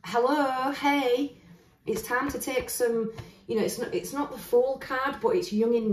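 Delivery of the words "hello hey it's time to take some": higher-pitched, lightly raised mock shout; mock calling across. Tarot reader voices the Page of Wands hailing Leo, mock calling across. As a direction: call out "hello" as if to someone far off. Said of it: "looks like he's screaming across".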